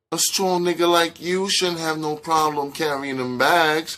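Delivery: high, teasing woman character; playful. A narrator's reading. Netta teases Tone about carrying bags, playful. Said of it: "said Netta playfully".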